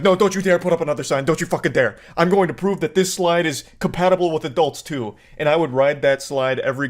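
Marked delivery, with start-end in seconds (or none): 0.0-5.1 defiant rant. Retold or imitated. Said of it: "be like".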